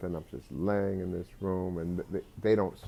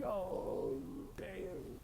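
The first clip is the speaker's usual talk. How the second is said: whispered dread; 12 semitones higher, 11 dB quieter than usual. Retold or imitated. Dying in ambulance.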